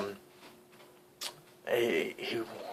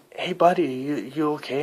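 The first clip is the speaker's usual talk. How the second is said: louder, higher call to someone; friend calling out; 3 semitones higher, 4 dB louder than usual. Retold or imitated. Friend calls to a huddled figure, calling out. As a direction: check on them with a raised voice. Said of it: "he goes".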